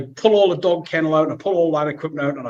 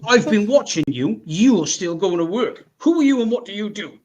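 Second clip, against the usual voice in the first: raised, emphatic interrogation; accusing challenge; 3 semitones higher, 3 dB louder than usual. Retold or imitated. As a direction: imitate a nosy neighbour confronting someone. Retold neighbour's accusing challenge.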